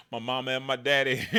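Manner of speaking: lightly mocked folksy Oklahoma twang; a hint of a folksy Oklahoma drawl. Mocking the candidate's Oklahoma talk, lightly drawled. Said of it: "don't talk like that".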